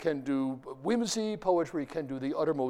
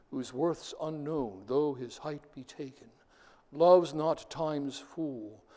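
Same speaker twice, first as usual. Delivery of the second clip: poem reading. Acted. Reads a Shakespeare sonnet aloud.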